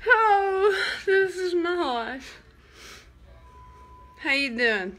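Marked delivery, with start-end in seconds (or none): 0.1-2.4 laughing till crying. Real, not acted. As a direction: crack up through tears. Laughing to tears.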